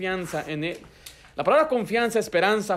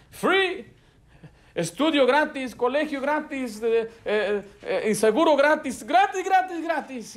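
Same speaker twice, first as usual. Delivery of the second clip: 1 mocking; 5 semitones higher, slower than usual. Mocking politicians' free promises.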